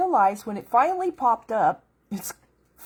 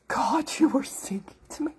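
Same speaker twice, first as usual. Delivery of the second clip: breathless whisper, higher; awed whisper; 5 semitones higher than usual. Retold or imitated. Realizing God sang to her, she whispers in awe. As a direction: hush it like a secret you just learned.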